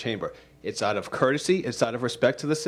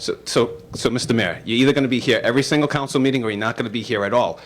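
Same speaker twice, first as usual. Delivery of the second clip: firm, louder stern lecture; calm turning angry; 4 dB louder than usual. Real, not acted. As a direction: lay down the law, getting louder. President lectures the mayor sternly.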